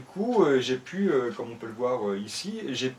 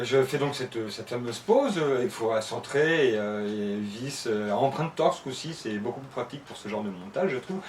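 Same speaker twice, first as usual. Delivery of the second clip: speaking with a half-numb jaw; numb from the dentist. Real, not acted. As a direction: talk through a numb, anesthetized mouth. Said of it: "j'ai la mâchoire à moitié anesthésiée".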